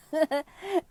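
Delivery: short burst of real giggles, loud and high; laughing at self. Real, not acted. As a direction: break into a quick self-amused laugh. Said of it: "I'm laughing at myself".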